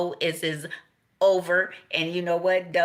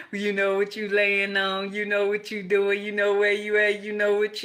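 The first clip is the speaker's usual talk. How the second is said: hyped-up retort; 4 semitones higher, 6 dB louder than usual. Retold or imitated. Voicing a hyped-up reply.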